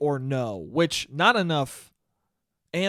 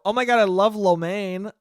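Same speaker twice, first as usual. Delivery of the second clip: raised, loud mock gushing; over-eager parody, pushed up and louder; mock squeal; 4 semitones higher, 5 dB louder than usual. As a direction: imitate someone screaming delight at a stranger. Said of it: "and just screamed".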